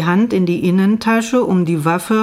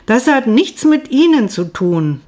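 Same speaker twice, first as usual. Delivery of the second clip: higher, a bit hysterical; 6 semitones higher, 3 dB louder than usual. A narrator's reading. Narrator repeats her answer to the doctor, higher and a touch hysterical. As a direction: pitch jumps higher and a little louder, near hysterical. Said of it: "meine Stimme erreichte eine amerikanische Tonhöhe, klang hysterisch".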